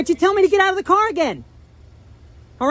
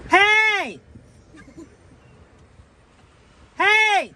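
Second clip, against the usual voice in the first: calling out across a lot. Real, not acted. Calling to man in parked car.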